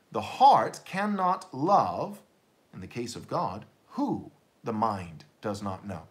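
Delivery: The heart cannot love drawn out very slowly, who the mind does not know falling away; slow emphatic restatement. Shown as a demonstration. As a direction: dwell on each word of the maxim. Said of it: "You might say it like this".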